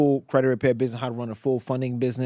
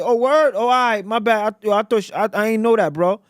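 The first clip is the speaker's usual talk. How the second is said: retold surprised apology; 7 semitones higher, 5 dB louder than usual. Caller apologises on hearing truth.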